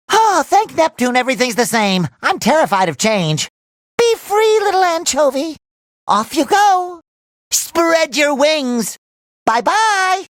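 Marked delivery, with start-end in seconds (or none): 4.0-10.3 tender send-off. Acted. Releasing a little anchovy.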